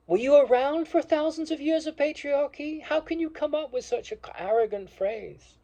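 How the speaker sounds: loud, high, incredulous rebuke; indignant outburst. Real, not acted. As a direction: fire the question back in disbelief. Rhetorical outburst against opponents.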